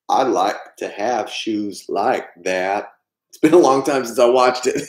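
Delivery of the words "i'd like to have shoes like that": slow, gentle Southern drawl; a hint of Forrest, slow and simple; Forrest Gump. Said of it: "do the voices".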